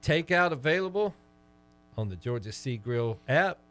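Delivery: measured live sponsor read; scripted commercial delivery, easing off at the tag line; radio ad read. Acted. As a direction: read it like a local restaurant spot. Reads a restaurant sponsor ad.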